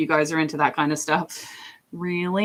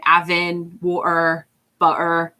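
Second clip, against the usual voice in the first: casual everyday British accent, dropped consonants; own natural accent; slower than usual. Shown as a demonstration. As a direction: say "water, butter" in an unpolished British accent. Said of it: "it's more like that".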